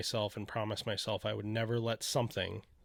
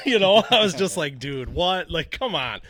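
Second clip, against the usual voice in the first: high, loud laugh through the words; laughing disbelief; 6 semitones higher, 10 dB louder than usual. Real, not acted. Laughing disbelief retelling test result.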